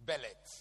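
Bellet with a vowel slipped in, bel-let; Asante pronunciation. Shown as a demonstration. Preacher owning the Asante way of saying belt, bel-let. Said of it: "That's how I was going to explain it".

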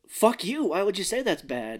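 high, punchy retort, easing off; mock indignation. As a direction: act out an offended comeback. Retold indignant comeback to insult.

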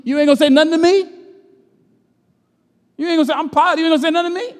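high-pitched, indignant Pilate voice; mocking Pilate. Preacher voicing Pilate demanding that Jesus answer, high and indignant. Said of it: "Then said Pilate to him".

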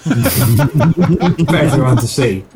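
slow words through laughter; laughing. Real, not acted. GM laughs while narrating the victory peanut, slow and laughing. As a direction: let the laugh spill into the words.

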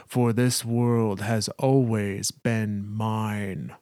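slow, lightly voiced thunderous queen; booming god voice. Hive queen announcing her arrival, slow and lightly ominous. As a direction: draw out each line like a distant doom. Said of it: "a voice booms like thunder".

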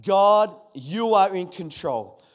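God called out loud, the rest slow and firm; a loud slow proclamation together with the congregation; loud declaration. Real, not acted. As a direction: lead the church in a proclaimed response. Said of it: "Come on, one more time".

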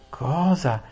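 high squealing Cosa; shriek. Acted. Saralin shrieks at Aravis's plan, high squeal. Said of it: "strillò la Saralin".

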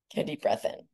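whispered breathing cue; soft spa whisper. Acted. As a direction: breathe the words out unvoiced.

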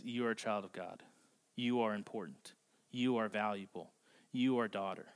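low, softened, measured reassurance; tender affirmation. Retold or imitated. Jesus speaking to the outcast woman, gently reassuring.

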